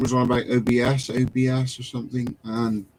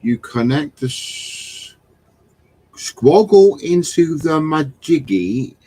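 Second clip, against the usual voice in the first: slow, louder, building into laughter; mock technical instructions; 4 semitones higher, 7 dB louder, slower than usual. Host reading out joke tech instructions, mock-serious then cracking up. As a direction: spell out the nonsense words with relish.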